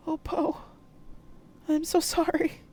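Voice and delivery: high, eerie hurt ghost voice; wounded ghost asking why; ghostly mother. Acted. Mama J's ghost asking Poe why she ran, eerie.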